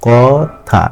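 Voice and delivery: কথা broken into two beats; two separate syllables. Shown as a demonstration. Teacher showing students a disyllable, কথা said syllable by syllable. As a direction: say কথা as ক, then থা. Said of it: "দুই বের উচ্চারণ হচ্ছে".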